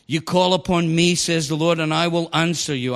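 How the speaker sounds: preacher emphasizing the Lord's words to the congregation; added emphasis. Shown as a demonstration. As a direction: lean on God's promise word by word. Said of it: "I'm putting in the emphasis".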